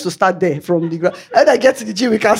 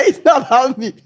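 mock self-justifying repeat; lightly voiced excuse she tells herself; 3 semitones higher than usual. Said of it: "You know that kind of justify".

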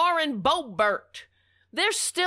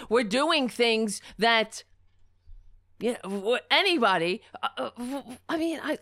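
halting, flustered stammer; stumbling over words; 3 semitones lower than usual. Real, not acted. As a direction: trip over words in shock. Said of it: "I'm stumbling over my words 'cause I'm in shock".

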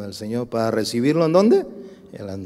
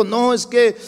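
mock protest; 8 semitones higher, 8 dB louder than usual. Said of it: "¿Y sabe qué dijo?".

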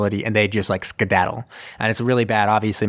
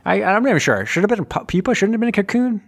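confused; 11 semitones higher, faster than usual. Real, not acted. Unsure about pupa vs cocoon.

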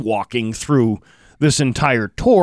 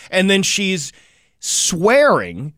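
ordinary talk

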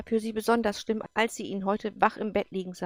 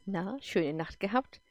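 teasing jab; slower than usual. Acted. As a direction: needle him with a slow jibe. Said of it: "dass sie frotzelte".

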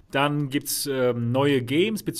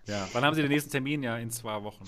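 schnell, leicht gespielter Kundendienst; Hotline-Mitarbeiter; 3 semitones lower, 5 dB quieter, faster than usual. Retold or imitated. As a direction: wie ein Telekom-Mitarbeiter am Telefon. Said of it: "wie ein Hotline-Mitarbeiter bei der Telekom". (Kundendienst-Stimme)

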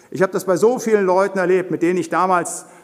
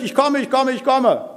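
eager, higher-pitched imitation of happy guests; cheerful; 5 semitones higher than usual. Invited guests accept the master's feast invitation, cheerful. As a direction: chirp it happily, voice lifted. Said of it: "die sagen fröhlich".

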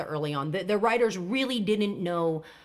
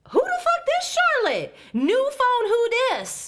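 sassy voice; 13 semitones higher, 3 dB louder than usual. Retold or imitated. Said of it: "I wrote down in my notes".

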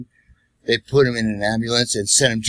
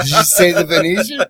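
incredulous question; 7 semitones higher, 5 dB louder than usual. Retold or imitated. Driver in disbelief.

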